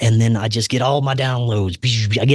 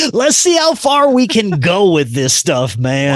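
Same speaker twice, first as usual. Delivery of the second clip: eager; 6 semitones higher than usual. Retold or imitated. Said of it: "I'm just like".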